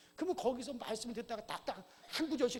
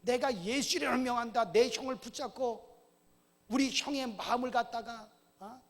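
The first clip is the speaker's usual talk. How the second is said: loud, rising command to the devil; commanding prayer; 3 semitones higher, 7 dB louder than usual. Retold or imitated. Brother praying against Satan holding his brother, loud commanding prayer. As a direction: bind and cast out in Jesus' name. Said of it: "한 시간 동안".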